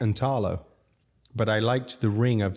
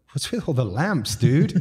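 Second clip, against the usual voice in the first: put-on American accent, louder on the last word; 4 semitones higher, 4 dB louder than usual. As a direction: do your best American dude. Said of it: "My best, uh, American accent".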